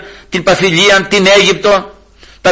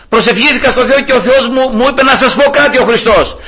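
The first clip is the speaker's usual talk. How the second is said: high, raised open-air voice; re-enacted shouted preaching; 8 semitones higher than usual. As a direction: proclaim it to a whole crowd. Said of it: "αρχίζω να φωνάζω".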